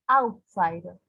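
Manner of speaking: OUT in "Outsider" given the weight; "Outsider" falling away after a strong OUT; stress on first syllable. Shown as a demonstration. Teacher repeating the example, first syllable stressed. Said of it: "it's stressed".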